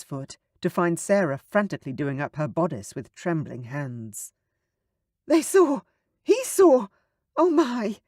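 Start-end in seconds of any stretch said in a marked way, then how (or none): 5.3-8.0 much higher, louder panicked babble; panicked babbling. Acted. Sarah caught with Oliver, babbling panic. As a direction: blurt it in panic. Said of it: "She was babbling".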